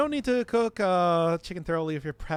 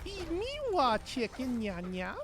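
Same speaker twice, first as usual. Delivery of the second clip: cutesy cat voice; 8 semitones higher, slower than usual. Pretend. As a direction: coo it like a playful cat. Cat talk after "are you a cat.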